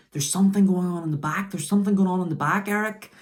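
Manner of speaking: high, fast, urgent repeated warning; urgent Heenan impression. Reviewer imitating Heenan warning Bischoff, fast and urgent. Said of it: "Bobby's pointing at his headset and saying".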